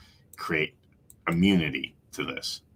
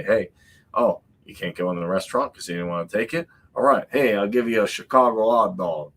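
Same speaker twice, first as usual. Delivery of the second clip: put-on Chicago vendor accent; 3 semitones higher than usual. Food truck vendor luring turned-away diners, mock Chicago accent. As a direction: hawk a hot dog like a Chicago vendor. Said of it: "that was the wrong accent".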